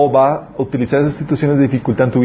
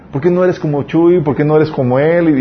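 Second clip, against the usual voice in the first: mock parent scolding; 3 semitones higher than usual. Parents comparing him to kids.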